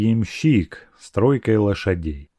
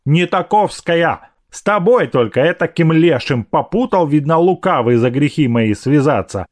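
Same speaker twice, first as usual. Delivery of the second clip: lightly voiced scolding maid; indignant maidservant; 4 semitones higher than usual. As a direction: berate him as an offended servant. (возмущённая служанка)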